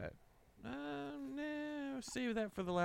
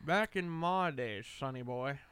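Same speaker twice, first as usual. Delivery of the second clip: put-on very old man. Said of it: "Are you gonna start screaming, "Get off my lawn"?".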